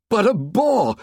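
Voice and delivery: high, exclaimed protest; high-pitched excited protest; voice running up. A narrator's reading. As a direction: let the voice run up in disbelief. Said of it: "Ralph's voice ran up".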